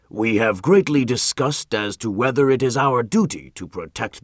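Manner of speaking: a hint of a stern magistrate pressing; stern governor.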